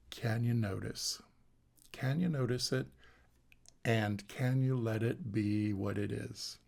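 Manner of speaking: "can you notice?" asked gently, rising at the end; gentle questioning tune on "can you let it be what it is?". Shown as a demonstration. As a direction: pose each line as a soft question, not an order. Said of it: "notice I'm saying that as a question".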